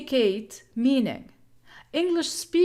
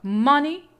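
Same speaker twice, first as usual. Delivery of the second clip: "money" with a loud, drawn-out first syllable; stress on first syllable; 6 dB louder than usual. Shown as a demonstration. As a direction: hit the start of "money" hard, leave the end light. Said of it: "Every English word has primary stress".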